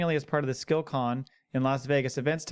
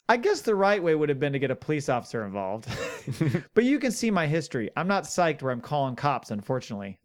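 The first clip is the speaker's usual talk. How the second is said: laughing while quoting; faster than usual. Retold or imitated.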